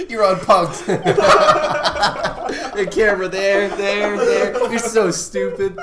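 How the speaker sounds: high, loud teasing through laughter; mock him while cracking up; laughing taunt. Real, not acted. Teasing a friend about the prank, laughing.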